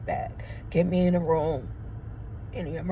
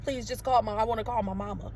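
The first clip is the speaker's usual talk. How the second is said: small, softer begging voice; retold pleading; 6 dB quieter, faster than usual. Patient begging to phone her mother, acted soft plea. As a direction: plead quietly for your mama, re-enacted. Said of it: "This is how I'm saying it".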